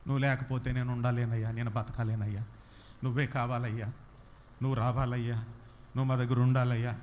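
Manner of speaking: lightly mocking a syrupy devotional song; mock overacted song. Preacher mocking overacted worship songs, light mock croon. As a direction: croon it with a hint of ridicule. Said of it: "ఓవరాక్షన్లు చేసేస్తున్నారు".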